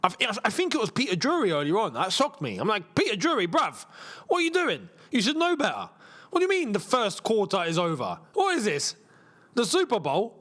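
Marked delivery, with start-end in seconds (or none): 2.9-10.4 exasperated, disbelieving rant; mock telling-off. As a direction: indignantly take a commentator to task.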